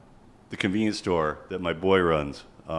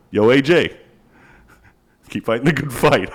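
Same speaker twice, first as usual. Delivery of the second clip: ironic cheer; 3 semitones higher, 6 dB louder than usual. Retold or imitated. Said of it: "I go".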